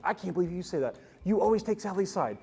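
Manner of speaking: high, whiny, accusing rant; upset ex-girlfriend. Retold or imitated. Ex-girlfriend accusing him of taking Sally's side, high whiny complaint. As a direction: pitch it up and complain that she's always second. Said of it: "she starts saying things like".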